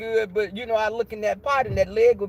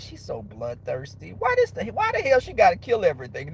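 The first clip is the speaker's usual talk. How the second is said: put-on smart-mouthed kid. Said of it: "me with a little smart mouth".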